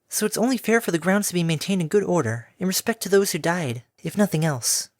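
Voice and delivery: gentle pegasus explaining; gentle mare voice. Acted.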